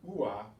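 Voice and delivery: ua as two syllables, OO-ah; slow two-beat ua; U pronounced separately. Shown as a demonstration. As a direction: give the u in ua its own beat. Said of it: "pronounce that U separately".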